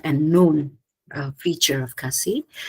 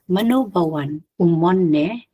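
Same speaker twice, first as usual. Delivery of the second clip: "Mano bawan, umon ne?" rising in pitch on the final "ne"; rising question contour. Shown as a demonstration. Lecturer demonstrating a Khasi yes-no question, rising pitch at the end on "ne". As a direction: let the pitch climb onto "ne" as a yes-no question. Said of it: "characterized by a rising pitch counter".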